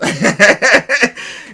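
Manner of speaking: high, loud burst of laughter. Real, not acted. Amused that the box was already posted.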